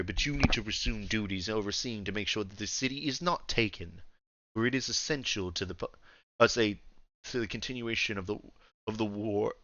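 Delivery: lightly voiced old ruler, soft and commanding; understated imperial orders, softly spoken; a hint of quiet dominance; refined old Emperor. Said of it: "very old, like, deep voice".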